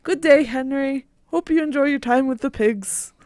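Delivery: put-on a light English countryside accent; hint of a rural English accent. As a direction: greet Henry in a mild English accent. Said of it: "picked up halfway through an English accent".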